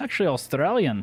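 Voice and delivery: put-on Scottish accent, held steadily. An actor on a movie set answering where he's from, scottish accent. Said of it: "is that what this accent is?".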